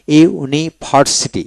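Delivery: slow, split "ইউনিভার্সিটি" into iu-ni-bhar-siti; syllable by syllable. Shown as a demonstration. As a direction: break "ইউনিভার্সিটি" apart for a learner. Teacher splits word into syllables.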